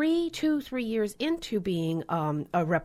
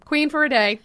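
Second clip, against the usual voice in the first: insistent daughter; 7 semitones higher, 7 dB louder than usual. Retold or imitated. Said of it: "She's like".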